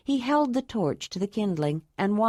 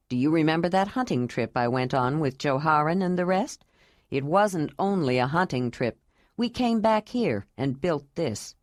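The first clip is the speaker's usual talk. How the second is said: lightly lowered, earnest man's voice; a grave, tender vow, voiced a bit low; Jondalar; 3 semitones lower than usual.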